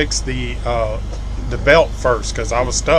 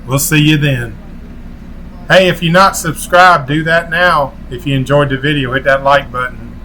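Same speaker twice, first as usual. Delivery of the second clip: outro sign-off. Acted. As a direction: sign off to viewers like a channel host. Vlog outro call to subscribe.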